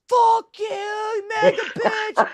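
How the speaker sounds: high shouted insult; retold yell. Retelling yelling at the MAGA lady, high shout. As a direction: shout it at her. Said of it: "and I'm like".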